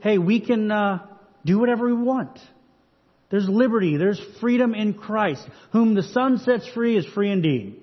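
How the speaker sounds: libertine group. Acted. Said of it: "liberal group".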